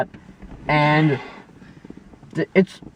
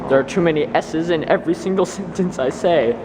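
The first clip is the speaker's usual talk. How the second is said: talking with new braces; slight lisp on the s sounds. Real, not acted. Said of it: "Sorry for my lisp, I got braces this morning".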